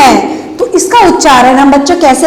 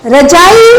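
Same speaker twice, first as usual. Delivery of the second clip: रजाई with the final ई pressed and held; ई पर ज़ोर; 2 semitones higher, slower than usual. Shown as a demonstration. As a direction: lean into the long ई ending of रजाई. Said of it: "जोर लगा रहे हैं ना". (रजाई की ई पर दबाव)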